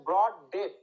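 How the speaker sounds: ব্রড and ডেথ each hit hard, separately; stress on both words. Shown as a demonstration. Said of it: "দুটাই মনে হচ্ছে মাথায় হাতুড়ি মারছে".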